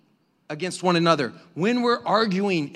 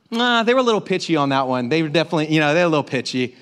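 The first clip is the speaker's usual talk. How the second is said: armchair judge; 3 semitones lower, faster than usual. Acted. Mimicking armchair talent show judges.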